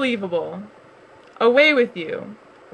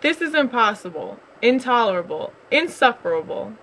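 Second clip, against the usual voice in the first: loud exasperated bear, mildly raised; angry bear outburst; 3 dB louder than usual. Acted. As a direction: rant in disbelief. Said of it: "cried Bear, shaking with anger".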